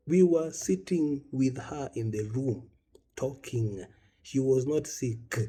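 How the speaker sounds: slow, deliberate word by word; emphatic retort. Acted. Bereaved speaker correcting mourners, slow emphatic insistence. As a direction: spell it out slowly for someone who won't listen. Exasperated retort, spelling out the facts.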